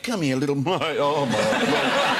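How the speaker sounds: laughing. Real, not acted. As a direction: laugh your way through it. Laughing retelling baby peeing.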